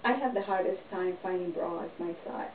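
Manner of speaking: ordinary talk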